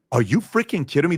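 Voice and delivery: usual speaking voice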